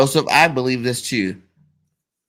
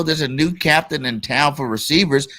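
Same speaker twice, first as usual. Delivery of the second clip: loud, emphatic hype; hyped proclamation; 4 semitones higher, 3 dB louder than usual. Acted. Hyping the team's new top receiver, loud proclamation. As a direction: proclaim it over the doubters.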